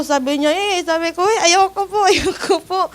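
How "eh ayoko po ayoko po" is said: retold crying refusal. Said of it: "Umiyak ako".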